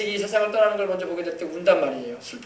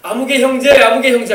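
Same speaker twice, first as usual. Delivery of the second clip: retold call, slightly raised; calling by name; 3 semitones higher, 5 dB louder than usual. Departed missionary hailing the pastor in heaven, calling out. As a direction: imitate someone calling out a name. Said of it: "자기 이름을 부르는 거예요".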